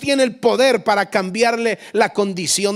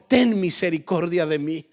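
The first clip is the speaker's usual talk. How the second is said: normal talking voice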